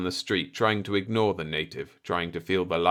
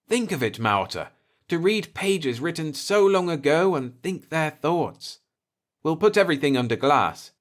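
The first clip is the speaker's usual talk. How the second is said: rising enthusiasm, louder as the plan grows; eager Earthman; 7 semitones higher, 5 dB louder than usual. A narrator's reading. Explorer urges Maota to help build a museum, eager. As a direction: sell the dream of a museum.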